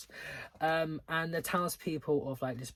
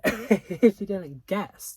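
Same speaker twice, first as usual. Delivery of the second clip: laughing; 7 semitones higher, 13 dB louder, much slower than usual. Real, not acted. Laughing aside about disliking book.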